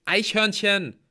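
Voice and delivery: high, loud single word; urgent explanation. A narrator's reading. T J explains the danger to Halbgeboren, urgently loud. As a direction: call it out as a warning.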